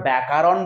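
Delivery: ব্যাকরণ with a long "aa" after k, byakaaron; mispronunciation. Shown as a demonstration. Teacher warns students of the exam slip, ব্যাকরণ mispronounced as byakaaron. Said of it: "যদি আমরা আবার ব্যাকরণ বলে".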